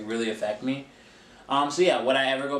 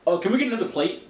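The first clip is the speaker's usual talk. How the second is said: mimicking uppity guests; 6 semitones higher, faster than usual. Mimicking demanding banquet guests.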